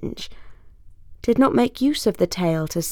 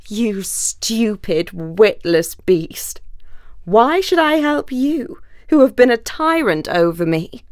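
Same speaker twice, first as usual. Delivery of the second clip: snarling; 2 semitones higher than usual. Acted. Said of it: "He snarled up his muzzle".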